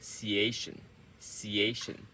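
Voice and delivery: ciation repeated as a compact unit; quick ending. Shown as a demonstration. Coach drilling the end of the word, quick ciation. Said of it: "at the end is quick".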